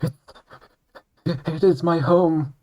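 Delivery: high, slow, gushing over-the-top pride; breathy mock-sentimental pride, drawn out; mock patriotic swoon. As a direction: swoon dramatically over your homeland.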